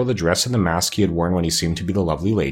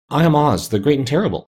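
higher, trembling little-man voice; timid, tremulous announcement pitched up; 6 semitones higher than usual. A narrator's reading. Exposed wizard introduces himself to attackers, trembling. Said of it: "said the little man in a trembling voice".

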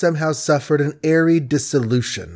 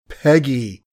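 brokenly. Acted. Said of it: "said he brokenly".

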